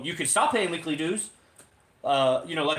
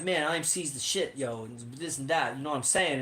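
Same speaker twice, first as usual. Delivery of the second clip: imitating Atlanta guy; 3 semitones lower, 5 dB quieter than usual. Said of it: "Black G character from A T L".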